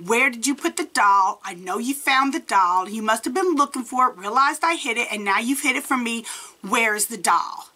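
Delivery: mildly angry retold demand; mad. Accusing Gerald of hiding the doll, mildly mad. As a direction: reenact an accusing confrontation. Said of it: "I go upstairs mad, stomping my feet".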